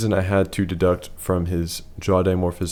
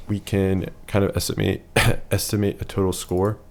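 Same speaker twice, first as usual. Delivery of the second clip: hoarse voice. Real, not acted. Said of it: "I'm losing my voice".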